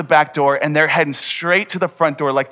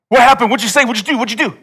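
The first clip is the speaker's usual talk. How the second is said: much higher and louder, tumbling eager questions; excited kids; 9 semitones higher, 6 dB louder, faster than usual. Retold or imitated. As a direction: pepper him like wide-eyed kids. Little brothers pestering after standoff.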